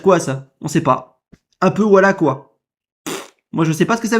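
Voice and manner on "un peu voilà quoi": mocking the halting words. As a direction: parrot his unfinished phrase with scorn. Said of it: "Il finit même pas sa phrase". (imitation moqueuse et hésitante)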